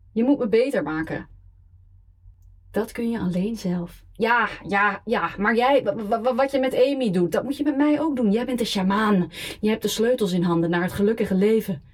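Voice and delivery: put-on drunk. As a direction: slur a needy drunken plea. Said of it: "dronken op te bellen".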